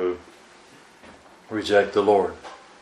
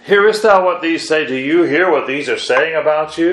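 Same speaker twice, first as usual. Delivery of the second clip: higher, louder, indignant question; indignant challenge; 4 semitones higher, 3 dB louder than usual. Retold or imitated. Pharisees confronting the Lord, higher and indignant. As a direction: demand he hear the children, a touch affronted. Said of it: "they looked at the Lord and said".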